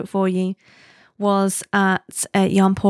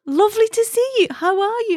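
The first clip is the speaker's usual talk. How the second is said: much higher, with a smiling wry tone; friend's wry greeting; 13 semitones higher than usual. Retold or imitated. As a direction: greet her with a knowing half smile. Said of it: "wry half smile that she does".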